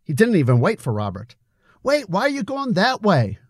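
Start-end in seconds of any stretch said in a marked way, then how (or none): 1.8-3.4 higher, puzzled call. A narrator's reading. Robert calling after Billy, puzzled. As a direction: call after a friend walking off. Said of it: "called Robert".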